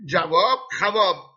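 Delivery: جواب خواب with خواب said xævɔb, vav sounded; mock wrong reading. Shown as a demonstration. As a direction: read خواب like جواب, as a pupil would without a teacher.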